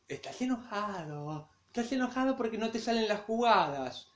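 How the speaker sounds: soft, slow inner voice; like a faint voice in his head. Retold or imitated. Nico recalls the voice in his head, soft and slow. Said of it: "una leve voz diciendo".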